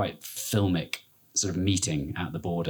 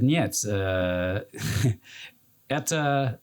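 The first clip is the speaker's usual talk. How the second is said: imitating a Russian soldier's accent, halting; Russian-accented soldier announcing the border; 3 semitones higher, slower than usual. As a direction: mimic a Russian soldier speaking broken English. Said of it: "And he said".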